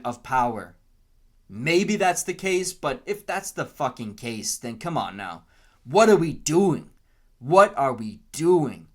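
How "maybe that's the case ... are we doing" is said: getting worked up, exasperated; frustrated outburst with loud, punched questions; riled up. Real, not acted. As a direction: voice jumps up in real exasperation. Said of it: "not gonna get all riled up".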